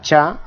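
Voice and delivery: "cha" as a regional variant, tongue curled toward "tra". Shown as a demonstration. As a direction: demonstrate the variant "cha" as one crisp syllable. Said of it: "es pronunciada como cha".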